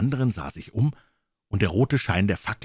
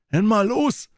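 angry outburst, much higher and louder; cursing; 14 semitones higher, 5 dB louder, slower than usual. Acted. Morgan draws his knife on Jim, cursing loud. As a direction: spit it out like a curse. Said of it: "sagte Morgan mit einem Fluch".

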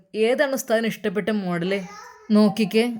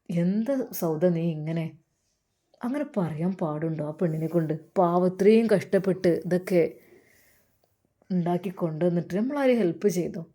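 Navas scolding; 4 semitones lower than usual. Acted. Narrator voices Navas scolding Sauda.

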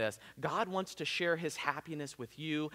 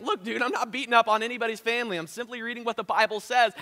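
firm reply; 8 semitones higher, 7 dB louder, faster than usual. Retold or imitated. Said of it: "I'm like".

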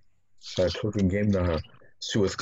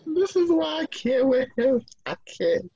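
laughing. Real, not acted. Friend reacts to the joke.

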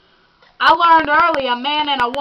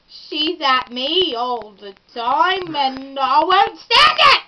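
fed-up Cockney rant, building to a shout; Cockney accent; 2 semitones higher than usual. Acted. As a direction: grumble in a put-on Cockney accent, then blow up.

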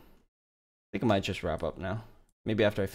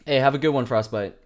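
calling out; 4 semitones higher, 9 dB louder, faster than usual. Real, not acted. Calls out a viewer farewell.

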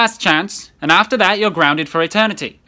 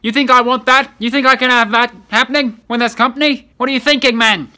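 exasperated scolding; 2 semitones higher than usual. Acted. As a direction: scold him, building in frustration. Parent scolds son about noise.

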